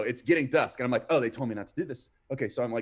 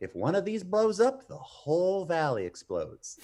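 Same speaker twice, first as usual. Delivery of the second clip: funny, high, swooping bus driver voice; 6 semitones higher than usual. Retelling what a man said about trailers in the desert, in a funny voice. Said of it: "he had like a funny voice".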